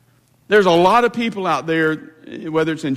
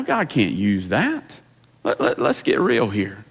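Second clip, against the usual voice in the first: voicing Satan; 3 semitones higher than usual. Preacher voicing Satan taunting a sinner, mocking sneer. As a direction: sneer like the devil whispering doubts. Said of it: "he loves to tell us".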